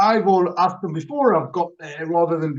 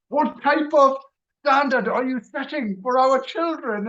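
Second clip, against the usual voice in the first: imitating a reproachful wife, pitched up; scolding; 6 semitones higher than usual. Wife scolds husband about the children, reproachful. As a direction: reproach him in a raised pitch. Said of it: "in the ear by my good lady".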